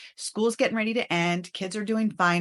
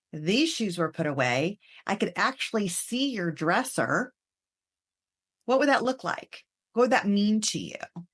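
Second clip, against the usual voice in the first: curious tone. Shown as a demonstration. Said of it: "come across more curious than critical".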